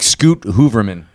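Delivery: Scoot Hooverman with long OO in both words; oo sound drawn into Scoot and Hooverman; mispronounced name. Shown as a demonstration. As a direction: say Hooverman as HOO-ver-man. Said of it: "I was gonna mispronounce his name".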